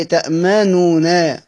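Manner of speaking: تأمنون spelled out slowly with full final nun; slow citation form; slow demo. Shown as a demonstration. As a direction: say تأمنون slowly, every syllable clear. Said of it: "هي أصلها إيه؟".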